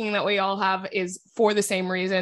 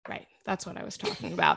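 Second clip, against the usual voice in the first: laughing; 14 semitones lower, 8 dB quieter, faster than usual. Real, not acted. Laughs at own lost thought.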